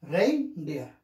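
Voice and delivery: "Reindeer" stepping down from high "Rein" to low "deer"; high-low stress. Shown as a demonstration. Teacher demonstrating syllable stress, "Rein" high, "deer" low. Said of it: "high and this is low".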